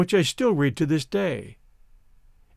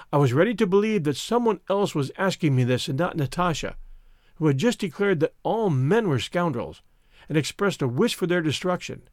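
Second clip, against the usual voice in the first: plain reading voice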